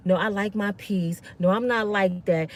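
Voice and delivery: patient and sweet, keeping the peace; kind, calm. Retold or imitated. Calm panel guest explaining gently to the men. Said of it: "I was so kind".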